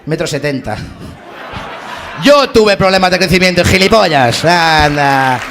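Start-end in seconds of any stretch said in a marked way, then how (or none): 2.2-5.4 indignant, hammed-up comeback; mock indignant retort. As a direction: punch the opening word, then grumble downward. Mock retort repeating Messi's excuse.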